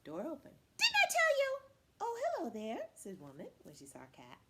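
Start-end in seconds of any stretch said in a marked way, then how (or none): 0.8-1.6 high, loud scream; furious wife. Acted. Woman yelling at a knock on the door, furious. 2.0-2.9 high, sugary greeting; sweetened wife. Acted. Woman greeting Cat at the door, high and sweet.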